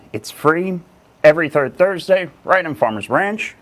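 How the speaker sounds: slightly out of breath; a bit winded after moving the table. Real, not acted. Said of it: "Sorry, I'm a little out of breath".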